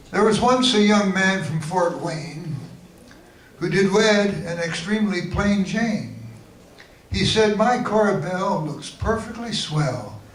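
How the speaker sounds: measured, lilting limerick reading; limerick recital. Acted. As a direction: recite it as comic verse. Recites own comic limericks.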